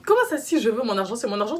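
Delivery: imitating the lender's outraged disbelief. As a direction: burst out in outrage. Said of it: "T'es en mode".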